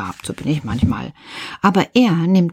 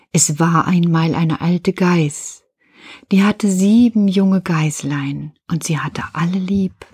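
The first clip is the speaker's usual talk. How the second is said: Märchenstimme. Shown as a demonstration. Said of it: "Nämlich eine Märchenstimme". (langsame Märchenerzählstimme)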